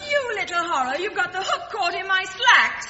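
laughing through exasperation. Acted. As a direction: scold while laughing. Caught by fishing hook, laughing.

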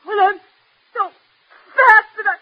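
tearful, broken-up complaint; crying. Acted. Daughter upset about school, work and her looks, crying. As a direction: force the words out between halting, tearful breaks. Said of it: "Stop crying like that".

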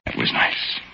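breathy, soft, lingering contentment; contented sigh. Acted. Remembering ale with John Smith, softly contented. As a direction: sigh it out like a happy memory.

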